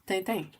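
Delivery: Tintin as "teh-teh" with nasal French vowels. Shown as a demonstration. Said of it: "How should Tintin be pronounced?".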